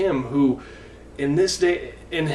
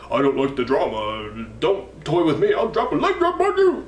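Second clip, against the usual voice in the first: playfully mock Hulk Hogan, pitch leaping up on the leg drop; Hulk Hogan impression; 2 semitones higher than usual. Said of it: "That's how he talks".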